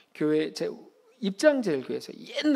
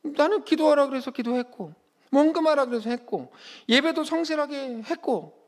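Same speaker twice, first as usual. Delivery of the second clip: high-pitched acted grievance, point by point; mock complaint, pitched up throughout; protesting to God; 7 semitones higher than usual. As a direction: list your efforts like an aggrieved believer. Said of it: "라고 따지죠".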